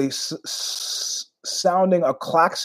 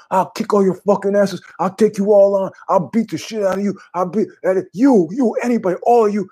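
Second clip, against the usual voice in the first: put-on belligerent drunk; 7 semitones higher than usual. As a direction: yell at the whole bar, itching to fight. Barroom guy challenging the room.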